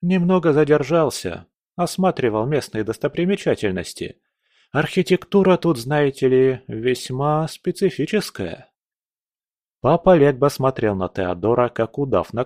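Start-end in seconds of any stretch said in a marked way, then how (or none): 0.0-8.7 higher, breezy small talk; nonchalant wit. Acted. Commander jokes about sightseeing, breezy. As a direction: chat like a tourist amid danger.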